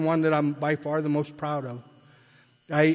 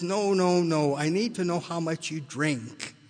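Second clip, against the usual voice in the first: pissed-off demand; 3 semitones higher, slower than usual. Retold or imitated. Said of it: "really getting all pissed off".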